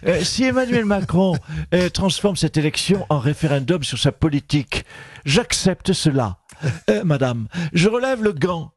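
Marine Le Pen impression. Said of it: "Marine Le Pen, bonjour".

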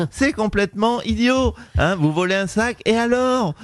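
a hint of a snobbish Paris mayor talking down; Anne Hidalgo impression. Mayor answering the radio host, mildly haughty. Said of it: "Bonjour Anne Hidalgo".

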